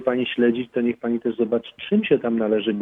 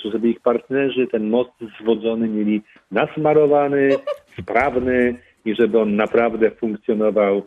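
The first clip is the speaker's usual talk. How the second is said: laughing; 2 semitones lower than usual. Real, not acted. Laughs at his own joke.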